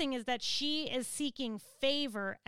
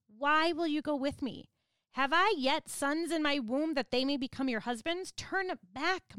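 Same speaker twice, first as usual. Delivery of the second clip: emphatic plead; 3 dB louder than usual. Acted. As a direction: beg them to turn back. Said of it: "It's an emphatic plead".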